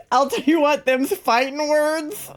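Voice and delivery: high, loud, hammed-up Southern; exaggerated Southern accent, drawn out at the end. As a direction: laugh through a big Southern drawl. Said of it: "Southern accent".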